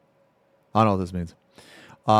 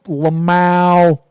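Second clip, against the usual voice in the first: hammed-up punchline; 7 dB louder, much slower than usual. Streamer acting out his reply to her, loud and hammed-up. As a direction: blare it out like a silly punchline. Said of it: "And I'd be like".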